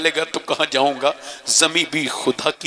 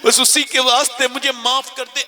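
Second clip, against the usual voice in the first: weeping plea; 5 semitones higher than usual. Retold or imitated. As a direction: beg for forgiveness through tears. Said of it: "رو کے بولا". (روتے ہوئے التجا)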